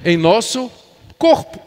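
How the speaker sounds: emphatic, measured sermon delivery; preaching. Real, not acted. Pastor to congregation on Christ's life in believers, preaching. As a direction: preach it with firm stresses on key words.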